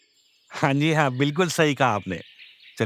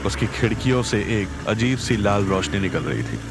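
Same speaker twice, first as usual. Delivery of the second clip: horror narration; 2 semitones lower than usual. A narrator's reading. Narrator over music.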